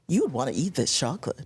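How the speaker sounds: low, quick, casual line read; easy, conversational ad read, pitched low; talking to a best friend. Shown as a demonstration. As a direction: say it like you would to your best friend. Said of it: "Talk like you're talking to your best friend".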